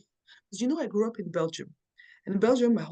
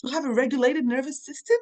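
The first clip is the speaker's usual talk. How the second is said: high, wide-eyed wonder at feeling safe; amazed disbelief; 5 semitones higher than usual. Retold or imitated. Retelling her amazement at a safe relationship, high and astonished. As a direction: marvel at it like a brand new discovery. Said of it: "It's like".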